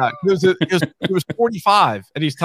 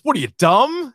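high gruff; 8 semitones higher, 3 dB louder than usual. Retold or imitated.

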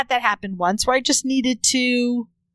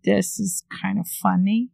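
embarrassed; 2 semitones lower than usual. Real, not acted. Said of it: "why are you sounding like you're really embarrassed to say it".

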